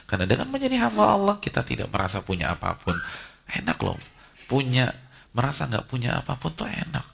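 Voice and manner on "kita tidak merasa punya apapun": ordinary delivery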